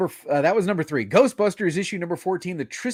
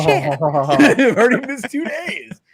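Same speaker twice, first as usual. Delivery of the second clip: dismayed realization; 8 semitones higher, 6 dB louder, slower than usual. Retold or imitated. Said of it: "I'm like".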